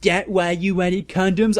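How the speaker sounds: high, loud mocking jab; hammed-up cruel taunt; sadistic. A narrator's reading. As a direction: sneer the question, relishing it. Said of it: "I asked sadistically".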